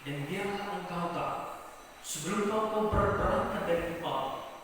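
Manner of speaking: soft, gentle voice of God; God speaking tenderly. Retold or imitated. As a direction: reassure a beloved child quietly. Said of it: "lalu Tuhan berkata kepada dia". (suara Tuhan yang lembut dan menenangkan)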